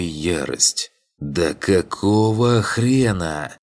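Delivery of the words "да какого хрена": slow furious outburst, pitched up; mental yell. A narrator's reading. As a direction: roar the question in rage. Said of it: "мысленно проорал я".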